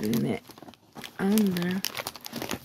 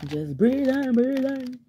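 calming herself; 6 semitones higher, slower than usual. Real, not acted. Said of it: "Ugh, I'm so mad".

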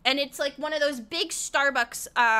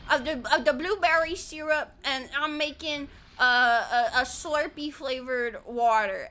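lightly imitated Southern US accent; 2 semitones lower than usual. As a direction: share the recipe in a put-on Southern accent. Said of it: "they always have a southern accent".

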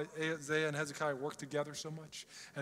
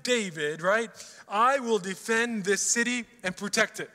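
a bold, louder voice of the Lord; prophetic declaration; 3 semitones higher, 6 dB louder than usual. Acted. Prophet Isaiah speaks to the king, declaring. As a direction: proclaim it like a prophet. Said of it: "He says".

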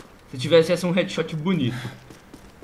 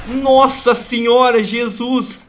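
startled gasp; 5 semitones higher, 7 dB louder, much slower than usual. Real, not acted. Startled by enemy fire.

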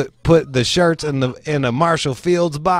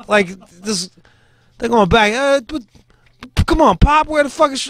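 much higher and louder hammed-up old man ranting; mock grandfather yelling; 10 semitones higher, 4 dB louder than usual. Grandfather refusing to wear the shirt, hammed-up shouting. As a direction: yell like a grumpy grandpa refusing a gift.

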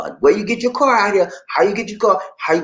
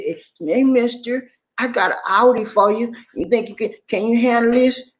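flirty saleslady voice; 4 semitones higher than usual. Retold or imitated. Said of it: "She said".

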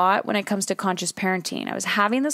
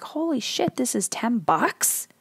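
shocked shopper; 3 semitones higher than usual. Acted. Acting shopper shocked by price.

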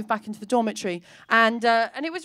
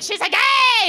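much higher, louder accusation; nuns' outraged cry; 10 semitones higher, 5 dB louder than usual. Retold or imitated. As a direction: denounce her in shock. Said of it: "they were like".

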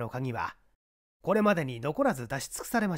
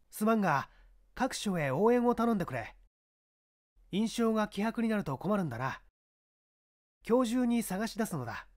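higher, firm police chief giving orders; commanding inspector; 7 semitones higher than usual. Acted. Inspector instructs his subordinate, firm and raised. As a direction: order the men about with authority.

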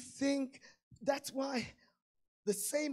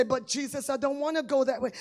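pleading believer; 4 semitones higher, 10 dB louder than usual. Acted. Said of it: "You say".

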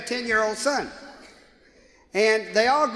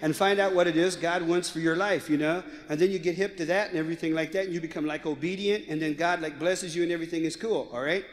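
put-on valley girl; 4 semitones lower than usual. Daughter explaining the Bible to her friend, valley girl voice. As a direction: preach like a laid-back valley girl. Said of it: "a valley girl".

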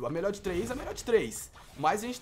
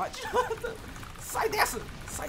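laughing squeal; slower than usual. Real, not acted. Rindo enquanto tenta escapar.

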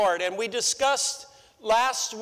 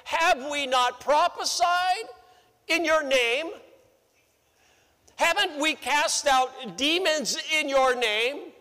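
pleading justifiers; 4 semitones higher than usual. Retold or imitated. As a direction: plead your case, a bit self-righteous. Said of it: "some will say".

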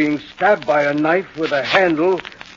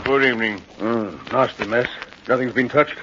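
lower, soft-spoken, official Scotland Yard inspector; police inspector; 4 semitones lower, 3 dB quieter than usual. Acted. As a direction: introduce yourself with calm authority. Inspector surveys the murder scene.

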